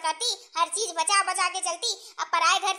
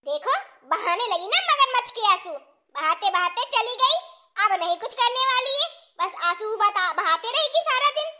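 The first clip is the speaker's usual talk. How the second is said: mocking, indignant complaint; scornful scolding; 3 semitones higher, 3 dB louder than usual. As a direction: grumble scornfully at crocodile tears. Mother-in-law mocks the tears.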